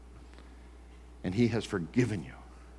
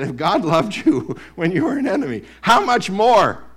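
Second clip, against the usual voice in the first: retold preaching; 12 semitones higher, 13 dB louder than usual. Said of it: "And he said".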